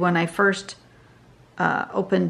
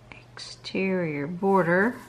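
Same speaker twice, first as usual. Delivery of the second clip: whispering; slower than usual. Real, not acted. Muttering to herself while drawing.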